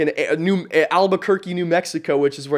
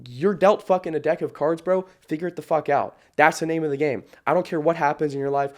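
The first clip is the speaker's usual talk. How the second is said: ordinary delivery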